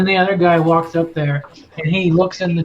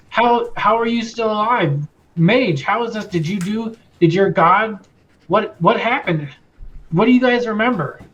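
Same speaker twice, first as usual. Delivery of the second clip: higher, stumbling questions; incredulous guard; 4 semitones higher than usual. Acted. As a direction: fire off baffled questions, mildly stunned. Amazed guard questions survivors.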